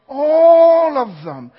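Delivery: slow, high, loud proclamation. Acted. Preacher shouting the answer to the congregation. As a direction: shout it out to the church.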